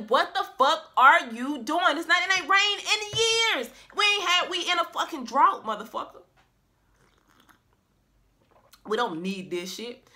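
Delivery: high, loud incredulous yell at Noah; mock the fool building an ark in a drought; mocking townsfolk.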